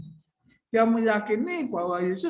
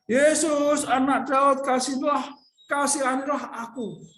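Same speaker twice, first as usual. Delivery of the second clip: raised pleading cry to Jesus; a blind beggar calling out to Jesus, pleading and raised; 4 semitones higher, 3 dB louder than usual. Acted. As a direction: call out for mercy. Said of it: "mulailah ia berseru".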